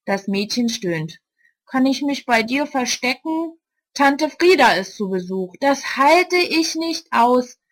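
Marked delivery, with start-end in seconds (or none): 1.6-7.6 put-on high, pleading young girl. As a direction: beg like an upset kid. Marsha, a girl, pleads with Ulla.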